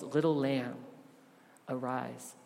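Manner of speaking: softly, with "Little lamb" tender and "arise" dropping to a soft hush. Shown as a demonstration. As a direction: speak it like a parent gently waking a child. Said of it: "As tender as he is".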